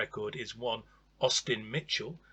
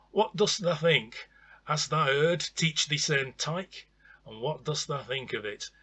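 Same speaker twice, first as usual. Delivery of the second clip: playful mock Yorkshire thee and thou, raised and louder; mock broad Yorkshire; 3 semitones higher, 3 dB louder than usual. Vlogger asking viewers' opinion in playful mock broad Yorkshire. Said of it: "leave your comments in Broad Yorkshire".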